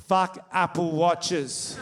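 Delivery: very slow, spaced-out secret, fully voiced; lightly acted, word-by-word punchline; mock child's whisper. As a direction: imitate a kid confiding with great gravity. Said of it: "and he whispers this".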